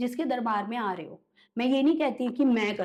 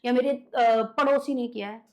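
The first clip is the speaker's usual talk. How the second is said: mildly raised, accusing insistence; insistent client; 2 semitones higher, 4 dB louder than usual. Retold or imitated. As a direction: lightly imitate a client listing who is to blame. Acts out client insisting, blaming relatives. (हल्की ज़िद भरी शिकायत की नकल)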